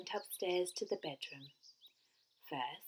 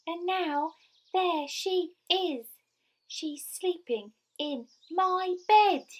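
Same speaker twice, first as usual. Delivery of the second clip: high, slow wail building louder; squeaky, tearful Baby Bear; 9 semitones higher, 7 dB louder than usual. A narrator's reading. Baby Bear pointing out the sleeping girl, squeaky wail. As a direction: wail each complaint in a little squeak. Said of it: "squeaky little voice through his tears".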